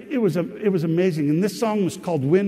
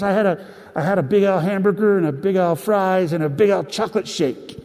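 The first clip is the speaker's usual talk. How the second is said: excited, louder quoted voice of his friend; imitating Brent; 3 semitones higher, 4 dB louder than usual. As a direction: do Brent's eager voice, mildly put-on. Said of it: "And that's how he would talk".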